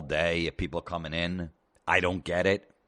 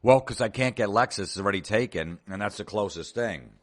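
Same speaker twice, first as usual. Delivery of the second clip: customer voice; 3 semitones higher than usual. Retold or imitated. Customer voice higher.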